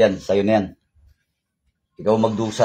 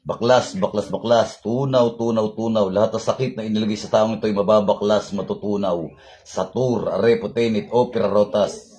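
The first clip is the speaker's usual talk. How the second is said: repeated words in a steady chant; healing incantation; 3 semitones lower than usual. Real, not acted. Healer ordering sickness out of a patient, intoned incantation. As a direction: intone commands to dissolve the sickness.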